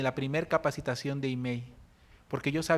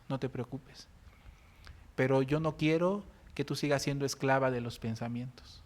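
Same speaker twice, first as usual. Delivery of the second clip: quiet, gentle appeal to a sister; soft gentle plea; 3 semitones lower, 4 dB quieter than usual. Retold or imitated. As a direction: speak softly to her heart. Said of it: "con una voz bajita".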